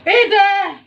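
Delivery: high shocked disbelief. Acted. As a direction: gasp at what you see. Shocked at the rice.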